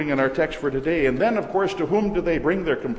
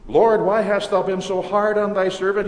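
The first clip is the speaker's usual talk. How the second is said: self-pitying plea; 5 semitones higher, 4 dB louder than usual. Acted. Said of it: "He becomes self-pitying".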